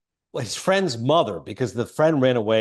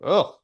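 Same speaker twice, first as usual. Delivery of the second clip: higher-pitched "ugh"; mock disgusted groan; 6 semitones higher than usual. Viewer reacting to the rock bashing, pained ugh. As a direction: wince it out as a groan. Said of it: "And you're like".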